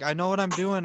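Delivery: high, exasperated insistence; mild mock yell; retold yelling. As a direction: re-enact yelling back, pitch up but volume held. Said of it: "And I yelled that at him".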